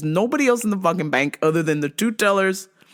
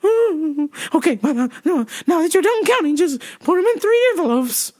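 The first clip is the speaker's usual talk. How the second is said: white lady voice; 9 semitones higher than usual. Retold or imitated. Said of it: "She's like".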